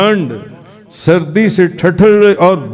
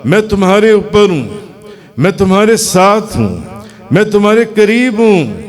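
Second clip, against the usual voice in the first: higher, building reassurance; divine answer; 4 semitones higher than usual. Acted. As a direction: answer lovingly, rising each line. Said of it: "فرمایا". (رب کا بڑھتا ہوا تسلی بھرا جواب)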